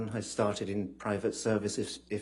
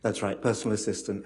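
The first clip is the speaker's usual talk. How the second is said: leaning into the mic; 5 dB louder than usual. Real, not acted. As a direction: close to the microphone, fuller sound. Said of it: "Can you lean into the microphone".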